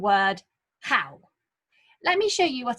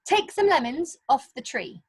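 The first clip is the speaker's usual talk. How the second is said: bossy command; 7 semitones higher than usual. Shown as a demonstration. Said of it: "So that's a command".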